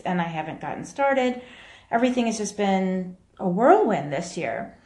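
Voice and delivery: echoey room; speaking in a reverberant room; big hall echo. Real, not acted. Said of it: "I apologize for the echoing in the room".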